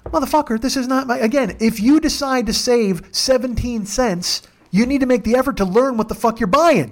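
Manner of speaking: hammed-up angry driver; mock yell. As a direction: vent at the riders, fed up. Yelling at drunk riders.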